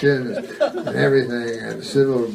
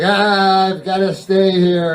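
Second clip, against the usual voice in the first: whiny ghost; 4 semitones higher, 4 dB louder, slower than usual. Retold or imitated. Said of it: "And they're whiny".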